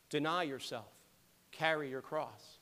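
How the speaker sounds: usual speaking voice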